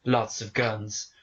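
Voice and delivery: low, slow, dead-serious; John Wick voice. Retold or imitated. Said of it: "And he goes".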